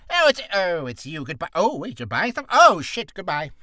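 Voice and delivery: hammed-up merchant in a muddle; shop merchant. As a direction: blurt it, backtrack, then blurt again. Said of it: "Two is".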